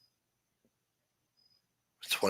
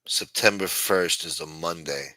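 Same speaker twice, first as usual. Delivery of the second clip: despairing groans; 6 semitones lower, 6 dB quieter than usual. Real, not acted. Streamer dreading September with his chat, low and hushed. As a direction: lower and quieter, sinking dread.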